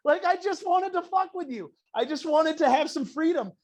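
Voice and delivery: high, loud, stretched-out comic protest; mock panic. Son to mom after plan backfires, high mock panic. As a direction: wail in hammed-up dismay as the backfired rebel. Kid's retold shock at mom's reversal.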